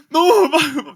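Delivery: normal talking voice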